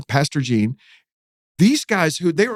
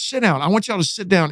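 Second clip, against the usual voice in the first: higher-pitched, firm order; retold command; 5 semitones higher than usual. Pastor tells prisoners to sit, retold commanding tone. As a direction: imitate a pastor ordering a room about. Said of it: "He just commanded the whole room".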